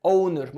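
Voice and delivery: "اونر" starting on the vowel, h left silent. Shown as a demonstration. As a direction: model "اونر" with no h sound at the start. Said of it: "الاتش هنا سايلنت مش هنطقها". (نطق "اونر" من غير صوت الهاء)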